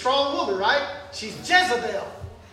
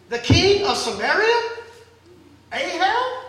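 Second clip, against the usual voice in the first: indignant king; 5 semitones higher, 5 dB louder than usual. Acted. Ahab indignant at refusal.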